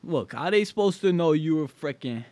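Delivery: hammed-up Chicago mobster voice; exaggerated cartoon intonation. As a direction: play up a tough-guy wiseguy. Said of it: "Why are you talking like that".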